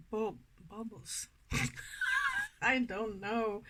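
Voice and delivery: ordinary delivery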